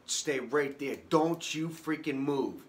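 father ordering his son to stay put, firm and loud; stern dad order. Retold or imitated. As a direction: bark it down the phone like a dad who won't be argued with. Dad on phone, furious and protective.

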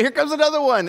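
loud, very high, excited holler; gleeful dad call. Retold or imitated. Dad warning son of the next wave, gleeful mock shout. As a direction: whoop it like a dad spotting a wave.

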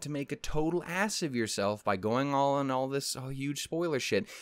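exaggerated, condescending voice in the head; voice of a thought. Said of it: "that thought sounds something similar to".

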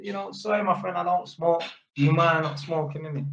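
polite, easy request; mildly apologetic, courteous ask; cool, not rude. Retold or imitated. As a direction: ask without any edge. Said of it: "'Cause man's cool with it. Man's not rude".

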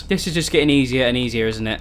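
low, understated sarcasm; sarcastic. Real, not acted. Player on mutant zombies appearing, sarcastic. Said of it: "That was sarcasm, by the way".

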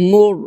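মুর with a full, thick r; heavy r. Shown as a demonstration. Teacher correcting the r, thickened মুর. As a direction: make the final r of মুর slightly heavy. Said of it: "একটু মোটা হবে রটা".

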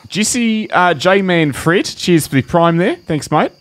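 New Zealand accent, light; Kiwi accent. Shown as a demonstration. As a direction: read the thanks in a Kiwi accent. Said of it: "in the style of a Kiwi accent".

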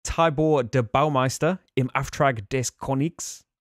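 slow, careful try at a German accent; attempted German accent. Shown as a demonstration. Reviewer reading a German board game title to viewers, attempted German accent. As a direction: have a go at a German accent, deliberately paced. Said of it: "tried to do an accent".

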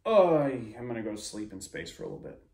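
high, whiny put-on voice for the boss; mocking Atriox. Streamer mocking Atriox's defeat for viewers, high and whiny. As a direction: make the mighty villain sound pathetic. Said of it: "he's like".

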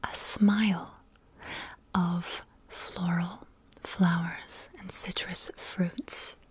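slow, lingering whisper; slow dreamy whisper. Acted. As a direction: savor each word slowly. Reading a quote slowly.

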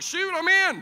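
high, loud whoop; hammed-up shouted yes; eager agreement. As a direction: jump in with comic gusto. Acting his eager agreement.

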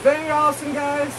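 speaking inside closed helmet; muffled through helmet. Real, not acted. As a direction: voice behind hard visor. Seen 1: Full-face costume helmet with visor worn throughout; removed by 14.5.

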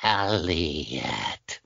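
a light take on a low, soft alien rasp. Retold or imitated. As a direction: breathe the name out quietly like the little alien. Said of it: "this little character comes on and says".

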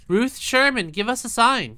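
talking to a ghost. Acted. Calling out to the ghost.

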